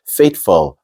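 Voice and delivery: "faithful" ending "fl", vowel barely there; almost no U. Shown as a demonstration. Teacher showing the U is not there, reduced "faithful". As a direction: slide from f into l in "faithful". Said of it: "going straight from F to L".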